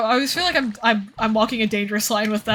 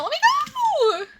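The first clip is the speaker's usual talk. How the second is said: laughing plea; slower than usual. Real, not acted.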